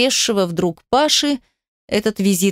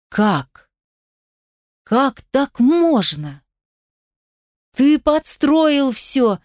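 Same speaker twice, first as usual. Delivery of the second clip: slow, rising shock climbing higher; shocked disbelief; 5 semitones higher than usual. A narrator's reading. Heroine confronts Pasha, climbing to disbelieving outrage. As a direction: she can't believe what he did.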